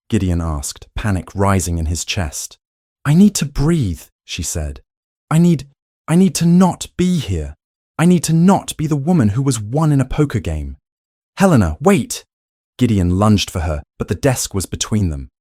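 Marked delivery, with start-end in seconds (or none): 3.1-10.8 high, loud, breathless distress; desperate outburst. A narrator's reading. Helena fleeing in distress. 11.4-12.3 loud, high call. A narrator's reading. Gideon lunging after her.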